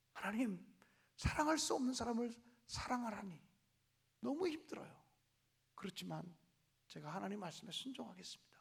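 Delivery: a broken believer softly giving in to God; hushed prayer. Retold or imitated. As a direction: pray it quietly, yielding. Humble prayer of surrender.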